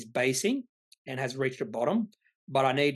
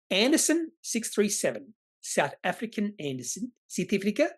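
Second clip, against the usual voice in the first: a light, slightly higher attempt at a South African accent; bad South African accent; 5 semitones higher than usual. Reading a viewer's name in a bad South African accent. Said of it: "Is that a bad accent?".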